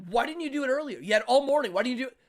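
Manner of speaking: high, exasperated telling-off; parent yelling. Retold or imitated. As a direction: nag loudly like a cross parent. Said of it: "like it was a parent yelling at me".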